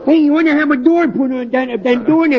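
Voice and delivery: put-on dopey punch-drunk fighter voice; washed-up boxer.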